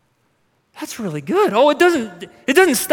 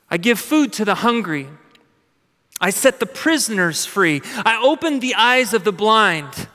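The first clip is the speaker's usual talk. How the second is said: solemn scripture reading. Acted. Voicing God's self-introduction, reading.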